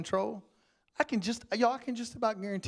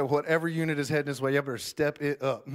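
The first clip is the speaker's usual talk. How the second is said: urgent radio call; 4 dB louder than usual. Retold or imitated. Urgent call over police radio.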